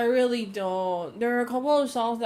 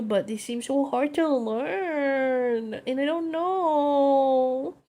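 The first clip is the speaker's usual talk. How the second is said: whiny; 4 semitones higher, slower than usual. Real, not acted. Whining about hard languages.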